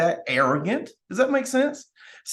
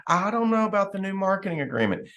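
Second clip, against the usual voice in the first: mock doubtful naysayer; 3 semitones higher, 3 dB quieter than usual. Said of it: "when people are like".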